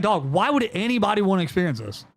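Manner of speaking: half-panicked; retold freak-out. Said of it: "'Cause I was freaking out".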